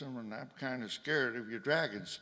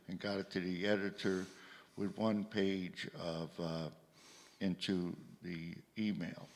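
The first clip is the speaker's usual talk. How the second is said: careful, deliberate repeat in separate phrases; slow and clear. Real, not acted. Questioner restating for someone who has trouble hearing, slow and clear. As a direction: spell it out patiently, pausing between phrases. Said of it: "I will say again slowly".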